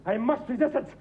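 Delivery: ordinary talk, nothing marked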